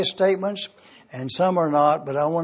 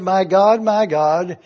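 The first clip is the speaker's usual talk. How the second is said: raised, louder cry of anguish, mildly acted; teacher voicing Jesus' cry, mildly louder; 6 dB louder than usual. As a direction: call out the name like a cry from the cross. Quoting Jesus' cry on cross.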